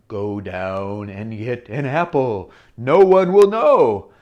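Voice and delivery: low, slow sly tempting voice; tempter voice. Acted. Tempting thought luring the girl to steal, low and slow. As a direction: whisper temptation slyly.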